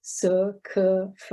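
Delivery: "s, k, f" as bare consonant sounds; voiceless sounds. Shown as a demonstration. Lecturer listing voiceless sounds, "s, k, f" sounded out. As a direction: sound out "s, k, f", not letter names. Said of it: "before these voiceless sounds".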